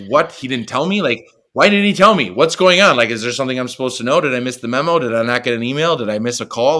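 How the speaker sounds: rising alarm, voice climbing high and loud then rattling on; panicked disbelief. Retold or imitated. Player left out of lineup, panicking aloud. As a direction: spiral into anxious questions. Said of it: "fear, anger".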